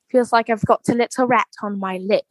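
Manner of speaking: lightly put-on British accent; retold line in a mild British accent. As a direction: imitate a British man's accent. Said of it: "everything's better with that accent".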